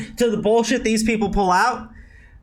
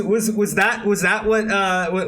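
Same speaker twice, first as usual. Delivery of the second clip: ordinary talk, nothing marked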